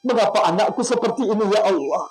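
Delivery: grieving parent's prayer. Acted. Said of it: "orang tuamu mengerut dada saya mengatakan".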